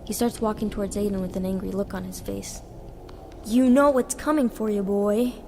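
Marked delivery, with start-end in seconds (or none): 3.5-5.3 put-on a loud threatening yell at the boy. A narrator's reading. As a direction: bellow it at him, louder. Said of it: "he yells".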